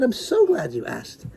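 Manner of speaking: suddenly composed and gentle; calm sanity returns; calm, sane. Acted. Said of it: "all the sanity and calmness returned to my voice".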